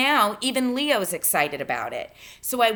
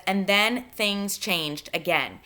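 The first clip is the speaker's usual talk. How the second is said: drawn out, weighty and slow; slow foreshadowing; slower than usual. Shown as a demonstration. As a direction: let the foreshadowing hang. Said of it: "another bit of foreshadowing".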